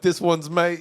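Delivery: mock British accent on mate; lightly put-on London voice; a half-hearted British "mate". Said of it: "If I'm butchering the accent".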